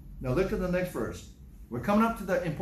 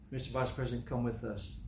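calm, low-key request; steady and understated, imitating a polite escort; 4 semitones lower, 6 dB quieter than usual. Secret Service agents usually escorting the Vice President, very calmly. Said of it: "very calmly".

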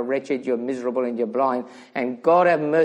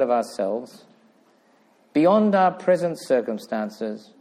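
measured prayer with long pauses; solemn prayer. Real, not acted. Preacher leading the congregation in thanks to God, solemn prayer. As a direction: pray it aloud phrase by phrase, unhurried.

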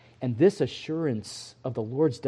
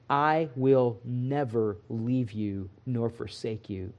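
solemn promise; 3 semitones lower, 5 dB quieter, slower than usual. Real, not acted. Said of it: "quiet slow scripture".

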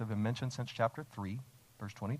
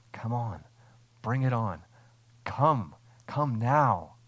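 eager invitation; 4 dB louder, slower than usual. Shown as a demonstration. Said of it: "That's the Spirit's response".

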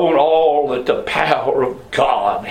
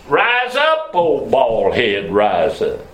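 mocking taunt; slower than usual. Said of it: "they are mocking the man of God".

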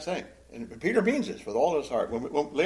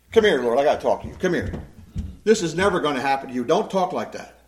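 fast, urgent reproof; rebuking; 6 dB louder than usual. Acted. Peter taking Jesus aside after talk of crucifixion, rebuking. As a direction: pull him aside and tell him off. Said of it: "He rebukes him".

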